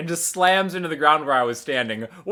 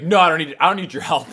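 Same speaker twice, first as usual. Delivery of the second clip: salty refusal; 4 dB louder, faster than usual. Retold or imitated. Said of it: "He's all salty about it".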